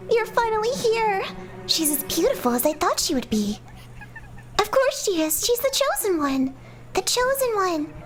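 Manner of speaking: high, sweet, eager doll voice; eerie doll chorus. Acted. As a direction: adore her like a creepy toy. Dolls praise the chosen one.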